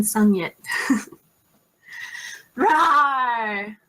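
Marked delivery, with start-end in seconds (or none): 2.6-3.8 playful roar at the troll; tiger growl. Pretend. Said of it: "give your best impression of a tiger".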